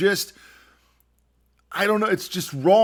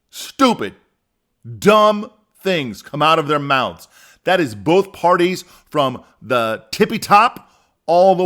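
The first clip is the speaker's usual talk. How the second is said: emphatic rant; 5 dB louder than usual. Real, not acted.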